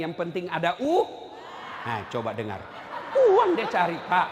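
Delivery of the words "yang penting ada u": calling out to the crowd. Retold or imitated. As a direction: call it out so the crowd finishes it. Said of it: "Saya tanya".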